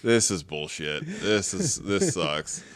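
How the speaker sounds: embarrassed hunter grumbling after his friend laughs. Retold or imitated. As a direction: sulk under your breath. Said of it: "and I'm like".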